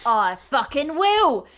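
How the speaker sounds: loud, high, drawn-out owl retort; defiant owl. Acted. Owl answering a dare to step closer, loud defiance. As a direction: take the dare with loud bravado.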